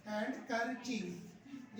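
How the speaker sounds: हैंड करचीफ drawn out slowly, d sounded; slow wrong pronunciation. Shown as a demonstration. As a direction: stretch हैंड करचीफ, each part slow. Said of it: "हैंड use नहीं करने आपने". (धीरे धीरे गलत उच्चारण)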